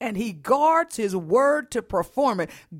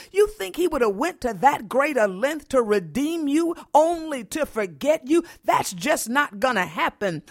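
full-force preaching. Acted.

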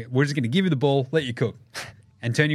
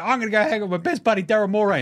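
higher, fast, giddy star voice; mock excited star; 6 semitones higher, faster than usual. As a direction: gush about your best buddy. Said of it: "And it's like".

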